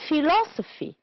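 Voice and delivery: philosophy with LOS high, then falling; stress on second syllable. Shown as a demonstration. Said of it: "two syllables before".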